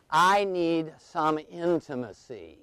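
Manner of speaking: slow, drawn-out plea; imitated pleading wife. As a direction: stretch each word as an imploring wife. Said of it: "and she's saying".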